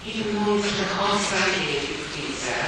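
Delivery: timid schoolgirl. Acted. Sissy voiced in reading.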